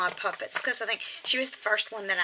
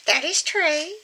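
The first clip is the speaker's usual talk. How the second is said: squeaky ventriloquist dummy; 5 semitones higher than usual. Pretend. Puppet agrees smugly.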